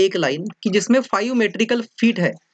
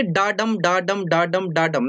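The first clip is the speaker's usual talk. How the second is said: "डा" unstressed, "डम" the big syllable, in steady pairs; iambic da-DUM beat. Shown as a demonstration. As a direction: chant "डाडम" as an even repeated rhythm. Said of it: "डा यानी कि unstress".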